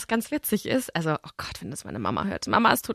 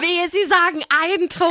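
laughing; 8 semitones higher, 4 dB louder than usual. Retold or imitated. Retelling threat while laughing.

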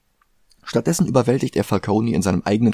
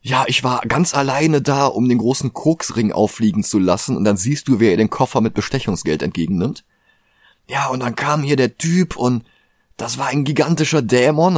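boastful cop; 5 semitones higher than usual. Retold or imitated. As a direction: brag like a lying cop. Acting out Flass's boastful lie.

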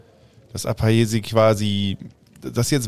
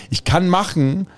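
said very loud; 4 semitones higher, 3 dB louder than usual. Acted. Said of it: "Ich sag trotzdem gerade sehr laut".

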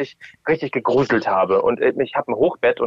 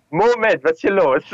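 surprised; 6 semitones higher than usual. Retold or imitated. Realising same voice actress, retold.

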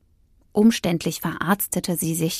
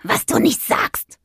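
sarcastic retort; 5 semitones higher than usual. A narrator's reading. Witch answering the cat's obvious remark, sarcastically. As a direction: toss it back sarcastically.

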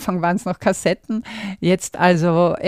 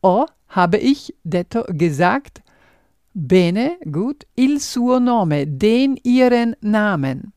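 word-by-word decoding. Shown as a demonstration. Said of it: "unterhalb steht dann dekodiert".

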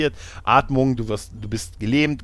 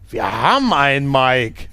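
radio reply; 4 dB louder than usual. Retold or imitated. Other side of radio call.

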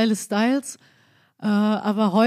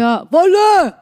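Wolle voice; 4 semitones higher, 7 dB louder, much slower than usual. Acted. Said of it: "Wolli aus der Eckkneipe".

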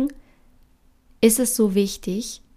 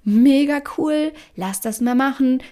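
mock enthusiasm; 4 semitones higher, 6 dB louder, slower than usual. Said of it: "Der hat nicht gesagt".

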